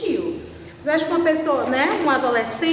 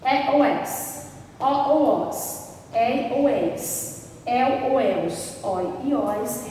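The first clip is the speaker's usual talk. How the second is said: endings spelled out slowly and evenly; measured, slow classroom listing; slow dictation; much slower than usual. Shown as a demonstration. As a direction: read the list slowly so students can write. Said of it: "terminadas em A ou As".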